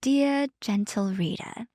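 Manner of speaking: soft, slow British accent. Shown as a demonstration. Co-host performing on request for partner, British accent. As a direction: say it in a careful, drawn-out British accent. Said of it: "like, a British accent".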